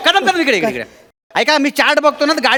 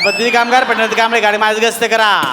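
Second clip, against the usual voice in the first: station announcement. Acted. Station announcement over speakers.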